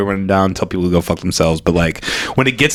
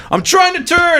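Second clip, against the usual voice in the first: retold yell; 3 dB louder than usual. Retold angry driver yelling.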